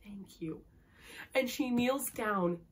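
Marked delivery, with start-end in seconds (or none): 0.0-0.6 very soft, barely voiced imitation; retold tearful thanks. Reader imitating Rhys sobbing to Nesta, very quiet thanks. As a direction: say it small and hushed, as if through tears. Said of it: "and he's sobbing".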